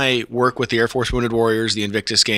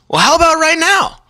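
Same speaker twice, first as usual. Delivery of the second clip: imitating Harry; 5 dB louder than usual. Harry's line retold.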